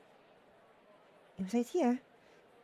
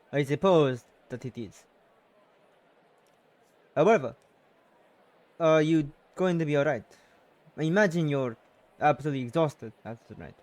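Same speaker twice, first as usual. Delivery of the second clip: a hint of a worried uncle, a little louder; lightly voiced uncle; 4 semitones lower, 6 dB louder than usual. Uncle asks his tired niece if she's alright, lightly voiced concern.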